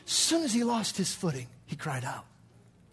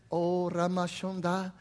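praying in tongues; 4 semitones lower, 4 dB quieter than usual. Retold or imitated. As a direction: slip quietly into tongues. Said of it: "I just went into prayer".

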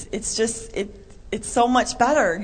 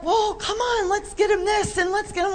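imitating eager husband; 12 semitones higher than usual. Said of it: "So he'll be like".

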